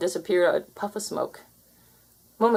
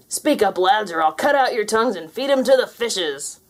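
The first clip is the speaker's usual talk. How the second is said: pirate threat; 3 semitones higher, 4 dB louder than usual. Acted.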